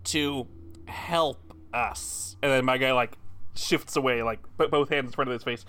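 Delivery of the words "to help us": polite request. Acted. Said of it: "How about I ask you politely".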